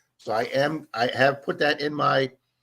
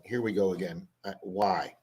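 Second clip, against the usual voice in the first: weary; 8 semitones lower, 7 dB quieter than usual. Retold or imitated. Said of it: "I'm like".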